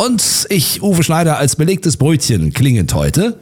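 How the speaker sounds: husky, a frog in the throat; hoarse voice. Real, not acted. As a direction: talk through a scratchy throat. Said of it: "ich hab irgendwas im Hals".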